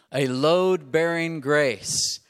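emphatic drawn-out refrain; call and response. Shown as a demonstration. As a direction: lead the crowd through it. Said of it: "Say that with me".

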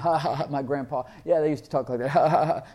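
imitating scoffers with a put-on ha-ha-ha; mock scoffing laughter. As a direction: laugh it off like a foolish doubter. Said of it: "People laugh".

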